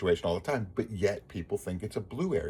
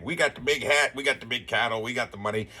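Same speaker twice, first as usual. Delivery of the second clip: lightly voiced swagger, a touch of bragging; mock the big-hat bravado, only slightly; arrogant Texan boast. Mocking Texas bragging about its neighbors, in a lightly arrogant voice. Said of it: "same arrogant".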